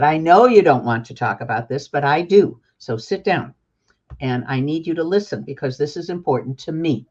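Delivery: lightly voiced parent talking to a five-year-old; mama voice. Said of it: "use your mama voice and your daddy voice".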